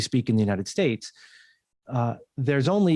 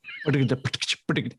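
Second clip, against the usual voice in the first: rapid plosive rattle. Shown as a demonstration. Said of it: "we gotta learn them that fast".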